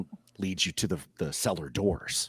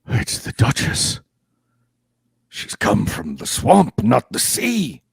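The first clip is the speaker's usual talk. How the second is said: louder put-on voice, insisting to the guards; Alan's bluff; 5 semitones higher, 8 dB louder than usual. Alan bluffing his way past fish-folk guards, loud put-on voice. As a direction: sell the lie to the guards with a bold put-on voice. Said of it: "goes up to the guards and says".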